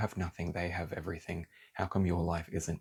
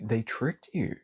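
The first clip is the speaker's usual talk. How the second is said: heated, fired up; 2 semitones higher than usual. Real, not acted. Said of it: "Sorry, I have to".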